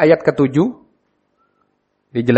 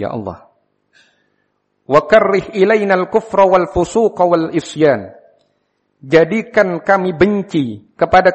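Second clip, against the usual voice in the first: higher-pitched, measured supplication; prayer recitation; 5 semitones higher than usual. Acted. Teacher showing a prayer to say before salam, raised reciting voice. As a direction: recite phrase by phrase, each falling at its end.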